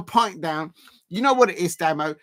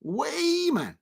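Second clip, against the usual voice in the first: "Wayman" in a much higher, gasped mock Geordie call; Geordie accent; 11 semitones higher than usual. Streamer hams up a Geordie call to the player. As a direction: put on a hammed-up Newcastle voice. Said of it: "You're doing the Geordie accent".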